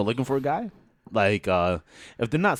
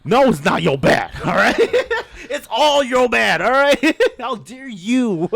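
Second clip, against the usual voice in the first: louder, higher, laughing mock indignation; mock outrage; 6 semitones higher, 5 dB louder than usual. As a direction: scold the lady in jest, laughing. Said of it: "I'm like".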